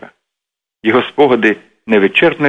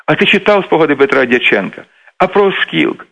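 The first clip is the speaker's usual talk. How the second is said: higher-pitched rush of eager questions; excited chatter; 5 semitones higher than usual. Retold or imitated. Friends arguing history in the office, excitedly retold. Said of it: "тут всіх як зірвало".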